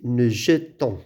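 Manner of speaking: "jetons" with a rounded schwa in the first syllable. Shown as a demonstration. Teacher showing the vowel change, "jetons" with schwa. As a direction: say "jetons" as je-tons, without an è. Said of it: "Il y a le changement de prononciation".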